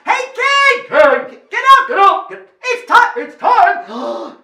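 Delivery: high, loud, jumbled calls; crowd yelling. Acted. Whole kingdom to king in bath, urgent yelling. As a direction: shout over each other like a mob.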